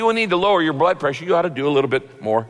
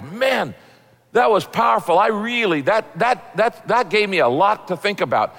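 higher, mildly enthusiastic reaction; impressed churchgoer; 3 semitones higher than usual. Acted. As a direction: act out someone moved by a sermon.

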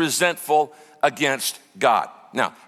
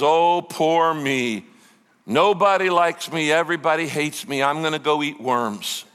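imitating someone sorry for himself; mock self-pity. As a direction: play up a little pity party. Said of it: "he has a pity party".

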